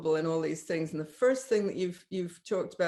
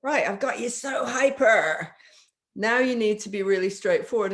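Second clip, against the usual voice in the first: hyped-up pivot; 3 dB louder than usual. Shown as a demonstration. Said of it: "you go up to the place of".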